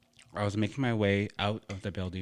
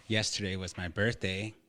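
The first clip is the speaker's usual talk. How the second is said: talking through a mouthful; eating while talking; wolfing down food. Real, not acted. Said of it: "sorry for the food. I'm starving".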